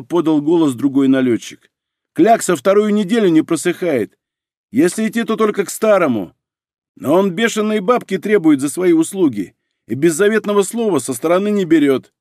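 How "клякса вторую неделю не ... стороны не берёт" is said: thug voice. Acted. Second thug voiced higher.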